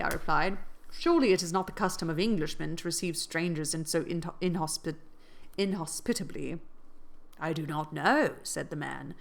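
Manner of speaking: steady audiobook reading voice; story narration. A narrator's reading. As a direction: read it like an audiobook. Reads a novel aloud.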